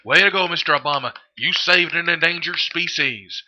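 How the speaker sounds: sarcastic praise. Pretend. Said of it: "clap our hands and say".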